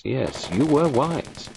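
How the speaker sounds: slow, firm insistence on "wise"; insisting. A narrator's reading. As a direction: press "you were wise" slowly and firmly. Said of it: "Poirot insisted".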